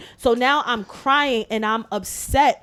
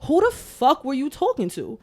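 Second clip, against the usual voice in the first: inner outrage; 3 semitones higher than usual. Retold or imitated. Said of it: "that's all that was going in my".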